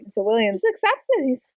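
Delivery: normal talking voice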